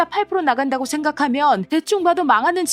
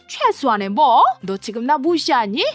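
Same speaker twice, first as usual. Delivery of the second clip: higher, louder stepmother taking offence; offended stepmother; 4 semitones higher, 5 dB louder than usual. Acted. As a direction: bristle at being slighted.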